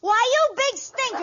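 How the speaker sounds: high laughing mock outrage; indignant laughing outburst. Wife laughing outrage at husband's trick. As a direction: laugh and scold him.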